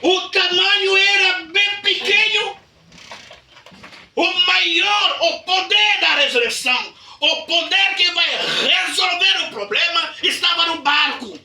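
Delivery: high, loud preacher's proclamation; preaching at full force. Acted. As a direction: thunder the point to the church. (pregação inflamada, alta e aguda)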